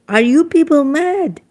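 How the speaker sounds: high, loud indignant cry at the crowd; mock outraged shout. Speaker scolding her listeners in a loud, high voice. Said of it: "And if I say".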